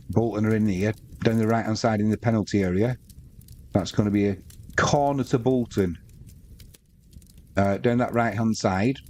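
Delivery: steady football commentary call; live play-by-play. Acted. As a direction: call the match as it unfolds.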